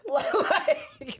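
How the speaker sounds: high-pitched laugh on the word. Real, not acted. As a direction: break into laughter as you say it. Breaks up laughing at own retort.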